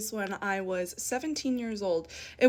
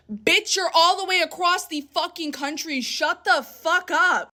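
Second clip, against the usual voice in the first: half-joking angry rant at the aunt; mild ranting retort; 5 semitones higher than usual. Real, not acted. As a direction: tell the aunt off, biting.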